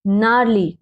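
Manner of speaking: नारली starting straight on n; silent g. Shown as a demonstration. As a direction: leave out the g before n in नारली. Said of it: "ग साथ में नहीं देंगे". (ग चुप रखकर नारली)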